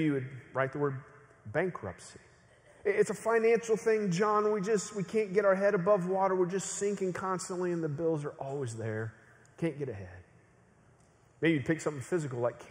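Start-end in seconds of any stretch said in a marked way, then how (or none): 2.8-10.2 mild overwhelmed plea, trailing down; weary confession. Acted. Struggling family member confides money trouble to John, wearily overwhelmed.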